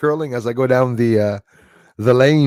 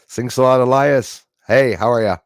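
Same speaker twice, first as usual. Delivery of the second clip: ordinary talk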